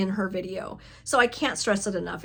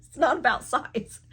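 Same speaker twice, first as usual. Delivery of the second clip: laughing; 4 semitones higher than usual. Real, not acted. Laughing at own joke.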